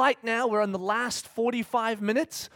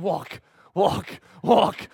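mock toddler; much slower than usual. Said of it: "on an airplane going".

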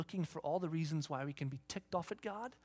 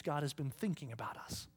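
hushed, breathy whisper; 3 semitones lower, 5 dB quieter than usual. Real, not acted. Preacher whispering to congregation about God's care. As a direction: lean in and whisper it.

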